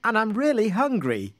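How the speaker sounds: high-pitched little crab. A narrator's reading. Golden crab introduces itself to the surprised couple, little voice. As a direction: pipe up in a small, high voice. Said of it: "said the voice again".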